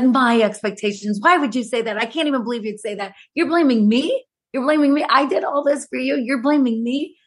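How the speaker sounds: incredulous, acted-out protest rising in pitch; retold indignation. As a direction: throw the blame back in disbelief. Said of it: "I was so mad".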